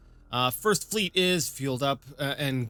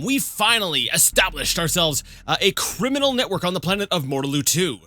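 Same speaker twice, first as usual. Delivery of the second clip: radio announcer voice; 3 semitones higher, 3 dB louder than usual. Pretend. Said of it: "like some strange radio announcer voice guy".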